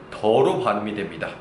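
usual speaking voice

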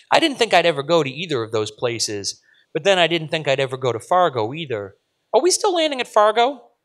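put-on high, eager child chattering; excited little girl. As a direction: gush like a proud kid.

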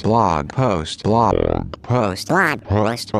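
repeating echo, fading out; echo effect. Acted. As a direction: let the words echo away.

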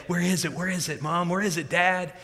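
lightly voiced eager kid; a hint of an impatient little kid; pestering child. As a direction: imitate a child pestering with rapid-fire questions. Excited child pestering parents, voiced.

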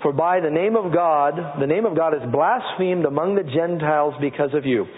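scripture reading. Acted. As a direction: proclaim it to the congregation.

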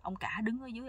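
ordinary talk

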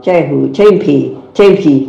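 "cahu" and "cempi" with ch in place of t; regional-accented "cahu, cempi", t turned into ch; accented mispronunciation. Shown as a demonstration. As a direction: say "cempi" with an initial ch and final i, meaning tempe. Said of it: "maksudnya tempe".

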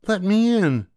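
mother demanding at the witch's hut, very high and loud; calling out. Acted. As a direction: demand at the door. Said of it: "the mother called".

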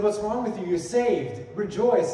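emphatic exhortation. Acted. Preacher voices scripture urging the saved believers, emphatic exhortation.

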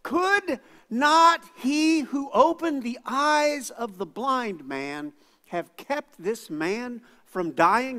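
high, slow skeptical voice; a hint of a scornful onlooker; doubting crowd. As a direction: question Jesus with doubt. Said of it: "they say this".

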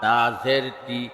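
final "তি" cut short; quick short vowel. Shown as a demonstration. Teacher demonstrating normal jer, short "তি". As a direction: keep the last "তি" brief, not held. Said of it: "তাড়াতাড়ি করতে হয়".

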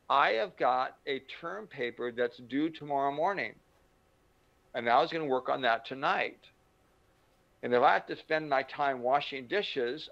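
wheedling daughter pleading a way out; a hint of a coaxing teenage daughter; daughter sweet-talk. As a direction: sweet-talk Daddy out of chores. Daughter sweet-talking father.

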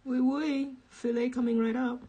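high, loud mock French waiter; snooty French accent. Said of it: "this really snooty French waiter".

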